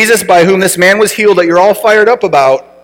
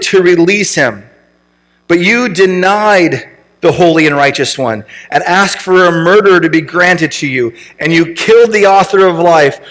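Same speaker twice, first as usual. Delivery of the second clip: measured, solemn reading from the pulpit; scripture reading. Acted. Pastor reading Acts to the congregation, solemn and measured. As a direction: read the verses with weight.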